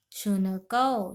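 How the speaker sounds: शुनकौ drawn out syllable by syllable, slowly; very slow dictation. Shown as a demonstration. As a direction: spell out शुनकौ very slowly for students. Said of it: "शुनकौ मतलब". (शुनकौ को बहुत धीरे-धीरे बोलें)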